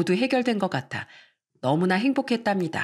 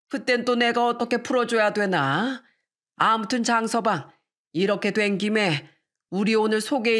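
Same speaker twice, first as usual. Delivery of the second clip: lightly voiced older man, making up; a hint of a coaxing elder; conciliatory father-in-law; 3 semitones higher than usual. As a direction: indulgent father to his son-in-law, mildly acted.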